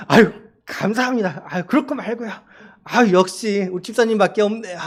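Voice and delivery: lightly put-on gushing thanks; a mock gushing pastor thanking a deacon; fawning pastor. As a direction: gush with polite delight. Pastor acts his eager reply.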